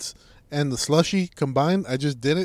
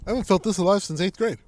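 giddy; 5 semitones higher, 3 dB louder, faster than usual. Pretend. Playing sugar high.

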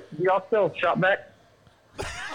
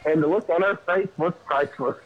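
laughing; 5 semitones higher than usual. Real, not acted. Retelling the prank, cracking up.

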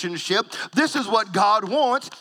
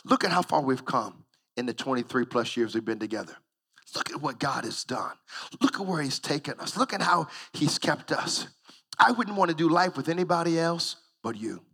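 tender reflection; 3 semitones lower, 5 dB quieter than usual. Retold or imitated. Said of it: "I was thinking to myself".

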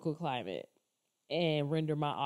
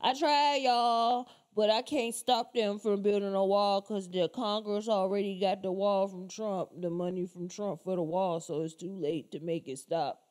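mock Biden. Vlogger mocks Biden's wall excuse, lightly whiny. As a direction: play him as helpless and dumb. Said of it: "he sounds so stupid".

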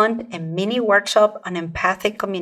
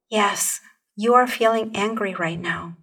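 calm, caring acknowledgement; compassionate tone. Shown as a demonstration. Coach shows the caring way, calm and sincere. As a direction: say it gently to comfort. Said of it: "Can you hear how different that feels".

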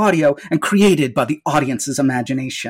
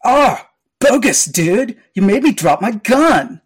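surfer dude villain; 4 semitones higher than usual. Acted. Villain disarmed.

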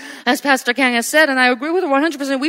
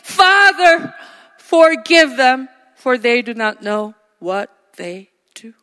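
voice of Christ on the cross; 5 semitones lower, slower than usual. Retold or imitated. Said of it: "you will hear the voice of the Father saying".

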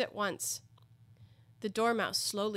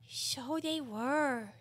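Dormouse voice; 5 semitones higher, much slower than usual. A narrator's reading.

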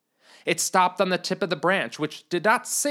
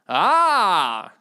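sudden bright loud "Ah!"; excited exclamation; 6 dB louder than usual. Acted. Knight greeting the lady, excited exclamation. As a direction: burst out with delight. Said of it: "he said excitedly".

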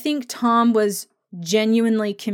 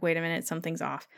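mock alarmed whisper; 4 semitones lower, 10 dB quieter, much faster than usual. Jamie realizes something is wrong.

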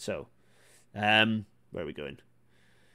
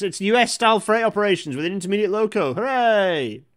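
higher and louder, gleeful cheer; delighted; 9 semitones higher, 6 dB louder than usual. Real, not acted. Rail fan explains US-style freight operations, gleeful. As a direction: cheer it like a rail geek's dream come true.

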